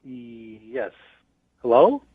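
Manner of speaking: ordinary delivery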